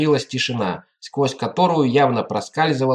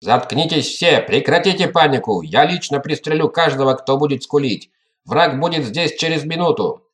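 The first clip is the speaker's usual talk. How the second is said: shouting orders over battle. Acted. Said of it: "прорезался властный голос адмирала".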